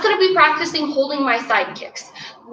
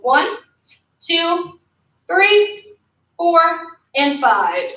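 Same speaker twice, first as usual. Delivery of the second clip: instructor counting out a hold, evenly spaced; measured workout count with pauses between numbers; drill count; 2 semitones higher, much slower than usual. Real, not acted. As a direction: count each beat separately, rising through the middle. Counting out a held kick.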